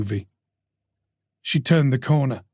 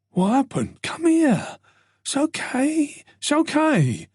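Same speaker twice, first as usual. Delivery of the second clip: gentle; 12 semitones higher than usual. Acted. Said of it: "His voice was gentle, soothing".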